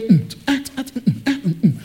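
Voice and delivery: short, broken grunts like heartbeats; imitated pounding heart. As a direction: mimic a heart thumping in bursts. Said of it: "His heart was going".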